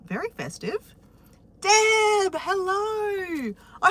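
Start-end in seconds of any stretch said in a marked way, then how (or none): 1.6-3.9 high squeaky elf puppet voice; chirpy little elf greeting. Pretend.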